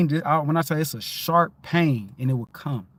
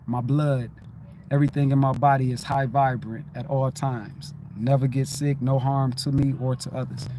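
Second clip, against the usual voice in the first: affirmation mantra; 2 semitones lower than usual. Acted. Reciting his healing affirmation to himself, calm chant.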